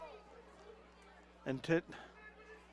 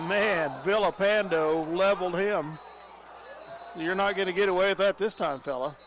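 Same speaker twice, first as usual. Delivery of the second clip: excited; 4 semitones higher, 5 dB louder than usual. Real, not acted. Reacting to big hit.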